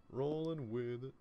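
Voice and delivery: high, drawn-out sing-song repeat; playful echo. Real, not acted. Player echoing himself at work, playful echo. Echoes own words playfully.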